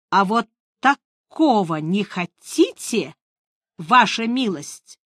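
ordinary delivery, nothing marked

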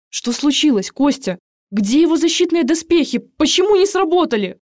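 a frightened voice that cracks as it climbs; voice breaking. A narrator's reading. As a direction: nurse alarmed over her wounded friend, voice breaking. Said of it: "срывающимся голосом спрашиваю я".

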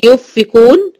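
"يفكون" as "yuffiqun" without nasal hum; noon dropped. Shown as a demonstration. Teacher shows the mistake, "يفكون" with noon missing. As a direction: skip the noon straight to fa in "يفكون". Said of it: "مش هقول".

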